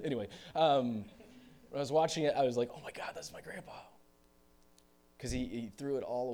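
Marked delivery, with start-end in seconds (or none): 2.8-3.7 stunned realization. Retold or imitated. Retells stunned reaction watching film.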